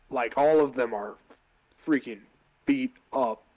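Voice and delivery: DM setting the scene; game master narration. Acted. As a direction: narrate the fight vividly. DM narrates boss fight scene.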